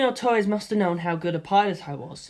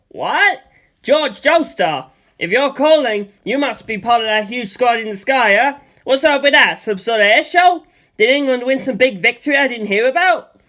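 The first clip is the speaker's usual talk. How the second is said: higher, louder excited friend; 5 semitones higher, 7 dB louder than usual. A narrator's reading. Old pilot friend answers the phone, excited and loud. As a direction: burst with curiosity. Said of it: "The excited man who answered".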